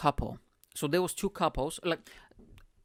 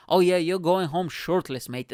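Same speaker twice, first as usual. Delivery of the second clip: raised, louder teasing call; mock taunt, higher and louder; retold stage taunt; 3 semitones higher, 6 dB louder than usual. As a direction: tease him loudly from the stage.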